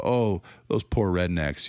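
slow mock pity for poor rednecks; drawn-out condescending sigh of pity. Critic mimics Bethel pitying poor rednecks, condescending. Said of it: "super condescending".

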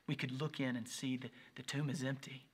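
hushed, breathy awe; reverent whisper. Real, not acted. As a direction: draw them close with a whisper. Sermon climax at the tomb.

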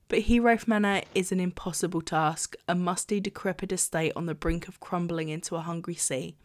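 even, measured read-aloud voice; reading the back cover to listeners; blurb reading. Acted. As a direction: read the summary like a book blurb. Reads the book summary.

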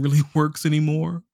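ordinary talk

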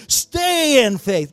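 loud, high, drawn-out rallying call; with passion. Shown as a demonstration. Preacher urging congregation to say it to somebody, passionately. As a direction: belt it out slowly with passion. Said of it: "Say it with some passion".

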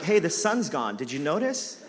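wife teasingly echoing his complaint; teasing gotcha. Retold or imitated. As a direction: rub it in playfully. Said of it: "So mature".

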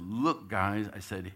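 rally the team with urgency; coach firing up team. Retold or imitated. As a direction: coach chewing out a flat team in a huddle. Coach scolding team in huddle.

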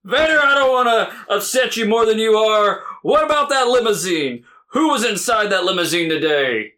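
hammed-up ringside interviewer. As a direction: play the excitable backstage host. Playing interviewer to promo.

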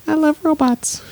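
very high, strained squeak; squeaky robot-fan voice. Pretend. Says the film title in a voice.

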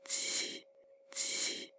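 鸡 in a barely audible whisper, no voice. Shown as a demonstration. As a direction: breathe 鸡 out as a whisper. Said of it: "试着用气声说鸡子".

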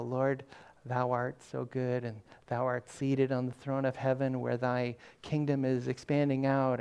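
slow, soft mock-solemn praying; formal pastoral prayer. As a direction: intone it like a traditional pastor at prayer. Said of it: "Why are you talking like this?".

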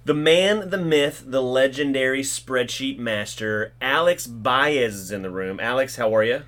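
polished podcast welcome; upbeat, professional emcee delivery; professional host intro. Real, not acted. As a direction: introduce the show and guest like a practised host. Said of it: "you sound so professional when you do that".

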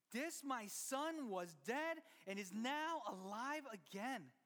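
slow declaration of joy; slow, heartfelt father's words; tender father. Retold or imitated. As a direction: proclaim it slowly with love. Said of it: "the dad tells his son".

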